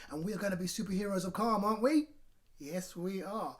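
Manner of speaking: rising eager call; excited rally. Real, not acted. Rallying children as superheroes.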